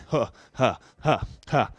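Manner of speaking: breathy huffs while jumping; short huffs on each jump; panting huffs. Real, not acted. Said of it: "Jump out, right back in".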